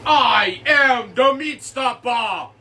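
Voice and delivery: low, slow, booming Meat Stopper line; deep slow catchphrase. Acted. Big guy booms his catchphrase at the crew. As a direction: announce yourself like a heavy brute.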